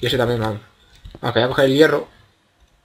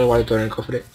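normal talking voice

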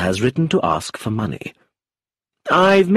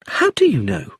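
sharp; 10 semitones higher than usual. A narrator's reading. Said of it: "asked Ruth sharply".

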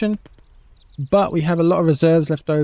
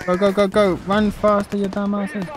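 shouting orders over battle; 6 semitones higher than usual. Real, not acted. Commanding troops in battle game.

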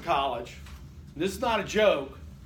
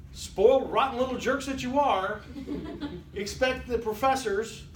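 teasing laugh; 6 semitones higher than usual. Real, not acted. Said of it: "teasing the class".

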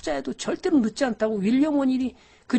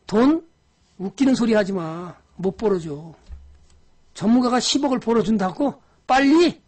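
retold scolding. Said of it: "제가 그랬어요". (친구에게 비웃듯 큰 소리로 꾸짖기)

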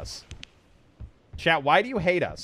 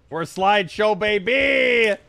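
mock hype; 3 semitones higher, 3 dB louder, slower than usual. Real, not acted. Gamer mocking the lag, mock-hype call. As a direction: sell the lag like a win. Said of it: "repeated louder".

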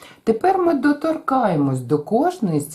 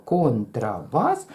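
контрабас slow, beat by beat; контрабас in three even beats; counted syllables; 4 semitones lower, slower than usual. Shown as a demonstration. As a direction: tap out кон-тра-бас. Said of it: "Рахуємо".

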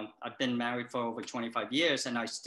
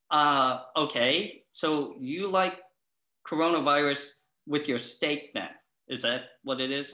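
sarcastic; 3 semitones higher, 4 dB louder than usual. Retold or imitated. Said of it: "And I was like".

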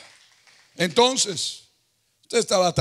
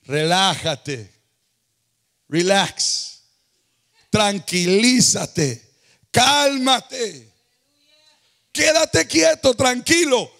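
slow, soothing words of God; slow reassuring divine voice; calming voice; much slower than usual. Acted. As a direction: settle a frightened man down. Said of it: "El Señor le responde a Josafat".

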